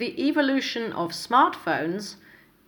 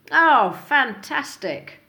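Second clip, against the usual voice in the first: bright, higher, eager replies; upbeat answers; 5 semitones higher, 3 dB louder than usual. Shown as a demonstration. Teacher modelling upbeat replies to how are you, eager. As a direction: answer with real enthusiasm. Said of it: "try using some of the following".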